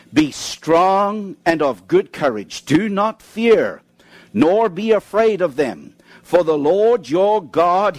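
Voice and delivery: slow, measured reading of the promise; slow scripture reading with weight on each phrase; solemn scripture reading. Acted. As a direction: read it out slowly as a solemn promise. Reads scripture slowly and solemnly.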